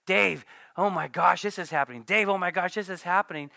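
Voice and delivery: a hint of a frantic church member; lightly voiced worried member; anxious congregant. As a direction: rush in with bad news. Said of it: "it's like".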